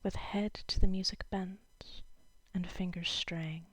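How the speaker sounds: measured poem recital with pauses between lines; lightly performed poetry reading. Acted. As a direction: read the verse aloud, letting each line settle. Reads a poem aloud.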